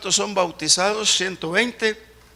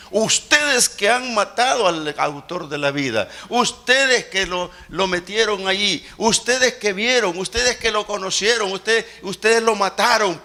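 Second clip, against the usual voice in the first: authoritative preaching; 2 semitones higher than usual. Retold or imitated. Peter accuses the crowd in a commanding voice. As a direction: denounce them with full authority. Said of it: "¿Con qué autoridad habló?".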